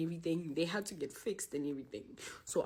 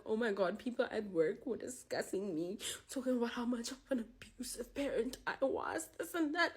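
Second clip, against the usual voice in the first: imitating crying mom; 4 semitones higher than usual. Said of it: "she started crying".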